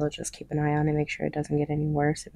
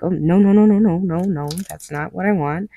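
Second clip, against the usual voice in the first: louder, rushed string of no's; urgent denial; 3 semitones higher, 6 dB louder than usual. Retold or imitated. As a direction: protest fast and hard. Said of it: "And I was like".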